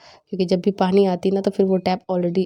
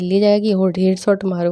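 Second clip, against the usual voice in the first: retold yell; 4 dB louder than usual. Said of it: "मैं यहीं से चिल्लाई थी".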